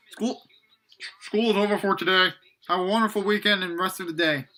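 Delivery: mild announcer's delivery; lightly put-on end-of-day announcement; voice over school speaker. A narrator's reading. School speaker dismisses everyone for the weekend, lightly voiced announcement. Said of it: "over the speaker, a voice".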